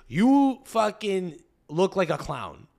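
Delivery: slow, drawn-out put-down; Montreal attitude. Acted. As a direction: spell out the insult slowly, Montreal style. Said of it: "The Montreal attitude is".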